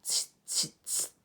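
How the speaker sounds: unvoiced tsk tsk tsk; monkey tsk. Monkeys mocking the peddler, clicking tongues back.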